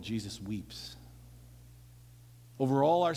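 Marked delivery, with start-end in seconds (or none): 0.0-1.0 whispered. Real, not acted. Repeated refrain, hushed to whisper.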